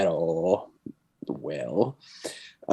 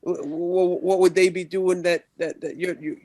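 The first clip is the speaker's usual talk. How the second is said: a raised-pitch lawman, lightly played; a nervous old-West lawman gripping his shotgun, quick; lawman character voice; 6 semitones higher than usual.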